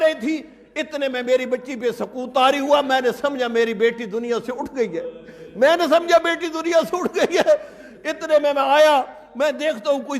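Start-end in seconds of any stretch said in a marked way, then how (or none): 2.8-5.0 grieving. Retold or imitated. Father fears daughter dead. 5.5-7.5 raised, swelling lament; the father's grief breaking out; anguished repeat. Retold or imitated. Father repeats his fear.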